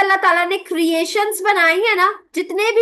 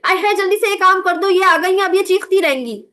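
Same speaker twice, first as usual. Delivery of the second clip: put-on scared kids grumbling; 2 semitones higher, faster than usual. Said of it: "डर के सुन लेंगे".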